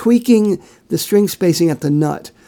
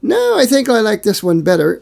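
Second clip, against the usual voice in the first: lightly voiced picky decider, pitched higher; imitated second thoughts; 6 semitones higher than usual. Quoting a man famous for design tweaking, lightly imitated in a higher voice. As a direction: raise the pitch to mimic someone changing their mind. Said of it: "as he's famous for doing, saying".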